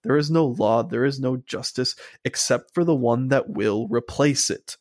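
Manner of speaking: a light take on Maul's villain line; imitating Maul. Fan to co-host, reciting Maul's monologue in his voice. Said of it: "amazing voice acting line from Sam Witwer".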